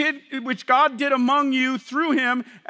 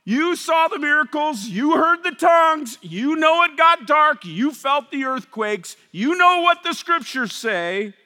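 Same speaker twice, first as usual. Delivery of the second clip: loud, higher insistent; Peter preaching; 5 semitones higher, 4 dB louder than usual. Acted. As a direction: drive it at the crowd. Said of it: "he's going".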